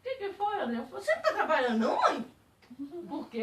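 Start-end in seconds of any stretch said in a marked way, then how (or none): 0.0-0.8 laughing. Retold or imitated. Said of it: "ela riu brincando comigo". 1.0-2.3 loud laughing tease; playful teasing. Retold or imitated. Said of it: "Brincando, do jeitinho que eu falava com ela".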